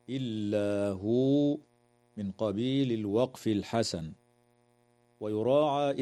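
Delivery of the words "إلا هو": Quranic recitation. Shown as a demonstration. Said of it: "ويجوز الوقف على قوله تعالى".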